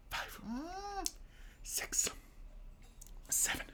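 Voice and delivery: pained counting through burning mouth; strained hot-mouth counting; food too hot. Real, not acted. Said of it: "it hurts to count".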